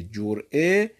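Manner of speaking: جرعه said as jor'e, rising; reading with o. Shown as a demonstration. Teacher listing the three vowel readings, jor'e next. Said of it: "مثلث الفاء یعنی".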